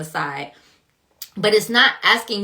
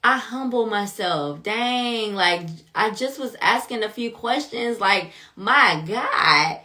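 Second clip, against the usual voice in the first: humbled Job; 2 semitones higher, slower than usual. Retold or imitated. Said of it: "I imagine Job being like".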